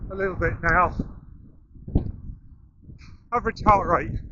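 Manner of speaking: talking mid-run, short breaths; speaking while jogging along; while running. Real, not acted. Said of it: "We're running up the coast".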